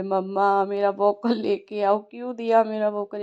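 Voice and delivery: hammed-up toddler crying for his bottle; imitating a crying toddler. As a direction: whine it like a sobbing little boy. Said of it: "इतना तेज़ रो रहा था".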